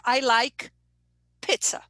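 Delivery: "pizza" with a short vowel, "pit-sa"; learner's vowel error. Shown as a demonstration. Teacher imitating a student's error, short vowel. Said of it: "when a student says".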